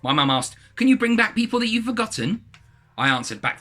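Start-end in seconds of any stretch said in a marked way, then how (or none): 0.7-2.4 high, louder mum voice. Acted. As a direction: voice the mum, pitched way up.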